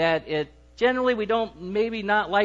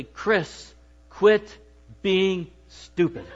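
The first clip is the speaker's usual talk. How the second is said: succinct wife; much slower than usual. Retold or imitated. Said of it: "she says to me very succinctly".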